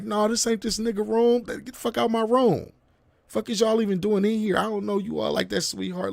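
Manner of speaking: high, indignant eviction without shouting; re-enacted exasperated protest; acted indignant confrontation. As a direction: pitch it up as you order them out. Acted ordering couple out of room.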